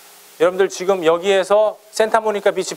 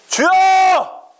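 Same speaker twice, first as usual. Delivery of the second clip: loud, high-pitched shout to the Lord; high, full-force prayer cry; 11 semitones higher, 4 dB louder, much slower than usual. Acted. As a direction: belt it out as a fervent cry to God. Demonstrates crying out in prayer.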